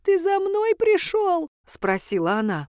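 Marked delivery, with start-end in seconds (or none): 0.0-1.5 put-on high, slow, quavering old-woman voice; a frail granny waking up in tears. A narrator's reading. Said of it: "Застонала бабулька в углу". (голос плачущей старушки, высокий и медленный)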